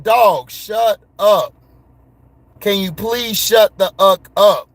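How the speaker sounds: mock yell at a chatty character; annoyed shout. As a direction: shout her down, drawn out and irritated. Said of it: "I'm like".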